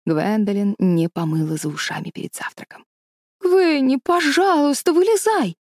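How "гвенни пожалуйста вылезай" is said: высокий, громкий молящий детский голос; умолять подругу вылезти; взмолилась. A narrator's reading. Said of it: "взмолилась Мэри Голд". (мольба испуганной девочки)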